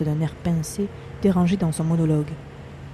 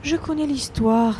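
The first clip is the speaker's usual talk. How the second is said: hissed; 7 semitones higher, slower than usual. Acted. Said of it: "siffla Marthe".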